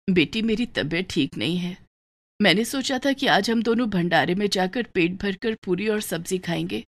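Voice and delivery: a sick poor mother speaking gently; lightly voiced frail mother, subdued; weak mother. Weak mother talks to daughter.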